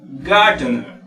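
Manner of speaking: Gardener, strong opening, falling end; stress on first syllable. Shown as a demonstration. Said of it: "Mayor fuerza de voz".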